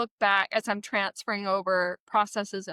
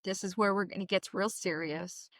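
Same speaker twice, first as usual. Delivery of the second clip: serious boss; 4 semitones lower, 7 dB quieter than usual. Retold or imitated. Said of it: "he was like".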